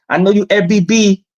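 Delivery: slow, lightly put-on Asian accent for the landlord; a hint of an Asian accent, slowed down; mock Asian accent. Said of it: "talking in his little Asian voice".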